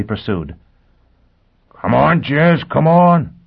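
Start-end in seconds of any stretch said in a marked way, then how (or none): 1.8-3.3 howled urging, louder and higher; howling. Acted. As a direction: howl it out, urging her on. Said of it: "Foyle howled".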